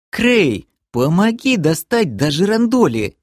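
voicing the girl asking for a hand; girl calling out. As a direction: call a friend over for help. Girl voiced calling for help.

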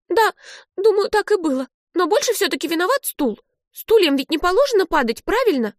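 put-on high child's voice, playful; a kid talking herself out of blame; cheeky little sister. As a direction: Olive reasoning with her sister, high and cheeky. Olive cheering up.

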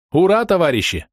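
high, drawn-out toast cheer; crowd cheer. A narrator's reading. Tablemates answer a toast, cheering high. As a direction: cheer as a whole table would. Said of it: "закричали за столом".

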